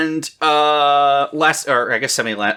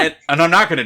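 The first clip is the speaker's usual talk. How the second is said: laughing; 7 semitones higher, 5 dB louder, faster than usual. Real, not acted. Joking about long episodes.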